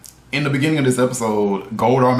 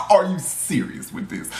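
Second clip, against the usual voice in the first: high, laughing cry of disbelief; half-shouting through a laugh; laughing outburst. Real, not acted. Reviewer cracking up at Devin praying, laughing cry.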